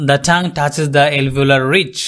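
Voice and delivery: very slow, careful English; slow classroom English; slow explanation. Shown as a demonstration. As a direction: spell it out word by word. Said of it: "হ্যাঁ, the".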